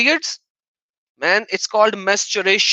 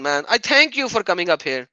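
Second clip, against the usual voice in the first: ordinary delivery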